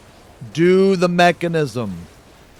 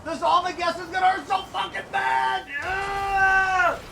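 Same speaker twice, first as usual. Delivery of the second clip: high panicked shouts for help; panicked yelling; 10 semitones higher, 4 dB quieter than usual. Real, not acted. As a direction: yell in real panic. Taking a huge hit in raid.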